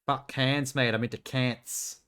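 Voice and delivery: lightly put-on Australian accent, "cants" drawn out slowly; a hint of an Aussie mate saying "cants"; mock Australian accent. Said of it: "Like the Australian, uh, accent pronunciation".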